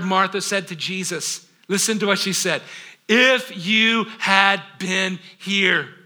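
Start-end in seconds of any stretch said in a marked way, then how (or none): 3.1-5.9 slow, aching plea; Martha's grieving reproach; anguished. Acted. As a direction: let the grief stretch the words out. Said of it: "Can't you hear the angst in her request?".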